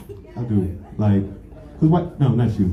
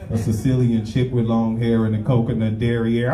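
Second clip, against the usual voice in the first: lower, unhurried rapper-cool delivery; laid-back rapper style; 4 semitones lower than usual. Retold or imitated. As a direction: toss it off like a lyric. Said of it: "was like".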